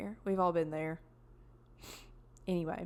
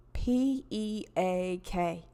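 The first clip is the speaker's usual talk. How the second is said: spelled out; much slower than usual. Retold or imitated. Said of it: "And they go".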